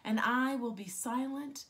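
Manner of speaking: deliberate poetic recital, openings of phrases emphasised; poem reading. Acted. Poet speaks for small spineless creatures on Earth Day, deliberate recital. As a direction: recite it as verse, pausing after each image. Reads second poem aloud.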